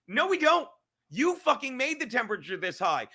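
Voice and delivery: sharp, loud retort, pitch jumps up; angry retort. Real, not acted. Ranting streamer rejects the media's call, angry retort. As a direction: slap the claim down hard.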